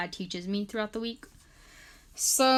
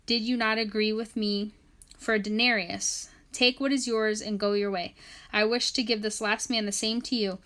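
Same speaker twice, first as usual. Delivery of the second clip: scripture reading; 4 dB louder than usual. Acted. Reads scripture aloud.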